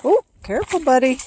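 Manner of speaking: high, sing-song caution to a dog; playground warning. Real, not acted. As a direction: gently warn the pup to watch out.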